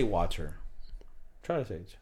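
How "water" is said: "water" said carefully, t fully sounded; over-pronounced water. Shown as a demonstration. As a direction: demonstrate "water" with a crisp, separate T.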